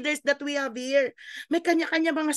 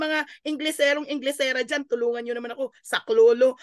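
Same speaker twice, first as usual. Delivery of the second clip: mock cry for help. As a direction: call out for rescue, half-joking. Pleading for help from English speakers. (pabirong sigaw ng saklolo)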